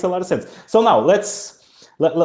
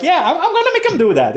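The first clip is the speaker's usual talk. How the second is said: mock determined; 12 semitones higher, 3 dB louder, faster than usual. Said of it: "I'm like".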